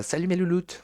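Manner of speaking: high, sugary greeting; mock girly influencer. Streamer mocks the influencer with a high girly greeting. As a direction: gush like a beauty vlogger.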